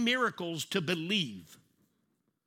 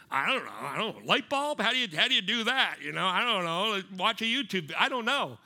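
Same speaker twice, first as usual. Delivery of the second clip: mock bewildered, rising and louder; helpless confused person; 5 dB louder than usual. Someone lost without a YouTube video, mock bewildered. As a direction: ham up a clueless fumbling.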